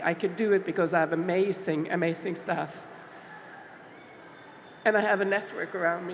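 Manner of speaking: very emotional delivery, feeling welling up. Speaking with another person, getting very emotional. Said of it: "I'm getting very emotional".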